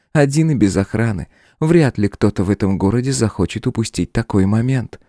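высокий, ровный голос демоницы; холодно отвечать господину; демоница Лилиан, спокойная. A narrator's reading. Демоница спокойно угрожает королю. (спокойно, с вызовом)

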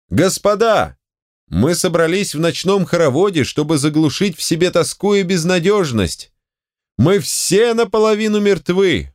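high, ringing oratory; shouted speech. A narrator's reading. Volgin shouting his speech to the hall, high and ringing. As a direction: proclaim it over the crowd. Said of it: "Он выкрикнул".

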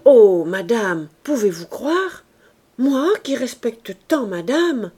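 loud, slow, tearful servant's plea; a maid wailing her innocence to madame; tearful protest. A narrator's reading. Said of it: "elle protestait".

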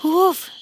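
drawn-out relieved "уф"; relieved sigh. A narrator's reading. Connie exhales after a bird startles her, relieved. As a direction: let the fright go with a long "уф". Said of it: "с облегчением протянула Конни".

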